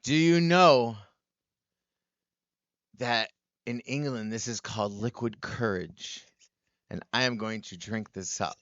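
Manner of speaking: lightly put-on British-American accent. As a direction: announce it with halting mock formality. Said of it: "I can't do the accent and drink".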